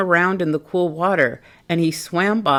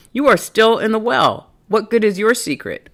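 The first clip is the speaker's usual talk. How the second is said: duck voice; 6 semitones higher than usual. Acted. Duck voiced in read story.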